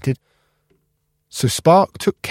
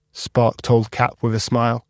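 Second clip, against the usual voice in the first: usual speaking voice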